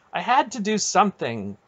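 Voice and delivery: high-pitched defensive protest. A narrator's reading. Garion justifying himself to his aunt, high protest. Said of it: "Garion protested".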